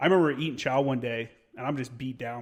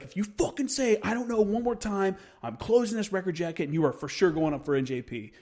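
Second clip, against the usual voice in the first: high, sharp, furious first sergeant; angry chew-out; 5 semitones higher than usual. Retold or imitated. First sergeant tearing into a lazy marine, furious high yell. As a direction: bark it like a fed-up first sergeant.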